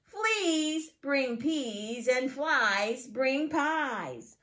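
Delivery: slow, deliberate picture-book reading; slow reading to children. Acted. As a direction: read each rhyme slowly for little ones. Teacher reads picture book aloud.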